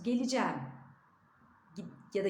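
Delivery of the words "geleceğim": Geleceğim said as gelicem; Geleceğim with a closed e, gelicem; spoken form. Shown as a demonstration. Teacher models the spoken form, gelicem. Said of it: "diye yazıyoruz".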